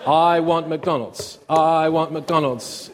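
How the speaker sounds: put-on slow, repeated childish whine; nagging kid. Kid nagging dad for McDonald's, whiny chant. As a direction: wear him down with a slow whine. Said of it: "just say it lots of times".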